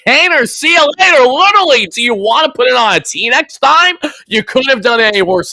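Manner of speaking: mocking outraged yell; furious shout. Real, not acted. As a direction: yell at the pitcher on screen. Fan ranting at pitcher.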